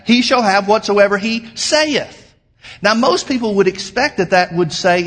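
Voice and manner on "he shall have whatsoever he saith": saith set apart and punched, higher pitch; slow down and land hard on "saith"; stress on saith. Shown as a demonstration. Preacher counting the word for his congregation, stress on saith.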